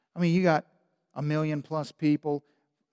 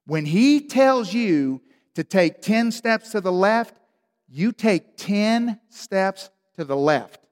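slow, deliberate emphasis; preacher stressing obedience, slowed right down; emphatic; 3 semitones higher, 3 dB louder, slower than usual. Acted. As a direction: drive each word home slowly. Emphatic sermon point.

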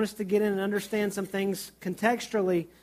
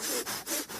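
imitated respirator bag; 6 dB quieter than usual. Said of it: "respirator bag and put it over".

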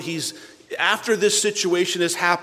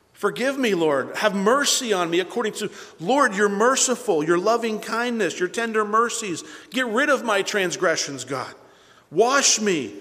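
raised, urgent appeal to God; pleading prayer; 4 semitones higher than usual. Acted. Sinner begging the Lord for mercy, pleading prayer.

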